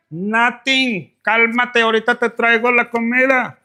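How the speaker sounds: calm him down fast, nervous; placating girlfriend. Pretend. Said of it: "girlfriend placating dude".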